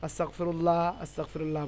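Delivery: আস্তাগফিরুল্লাহ said quickly with a thin, light "laa"; common thin pronunciation. Shown as a demonstration. Teacher quotes how we usually say it, আস্তাগফিরুল্লাহ with thin L. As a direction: say আস্তাগফিরুল্লাহ the everyday way, ending in a flat-vowelled "laah". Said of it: "বলি".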